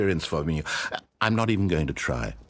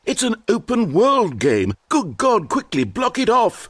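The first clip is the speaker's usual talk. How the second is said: high, loud panicked cry; panicked shout; 13 semitones higher, 5 dB louder than usual. Acted. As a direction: shriek in horror at it. Narrator panics at open world.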